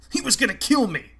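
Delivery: frightened coward shouting for arrest. A narrator's reading. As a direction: yell it in panic, pointing a finger. Fisk yells in panic.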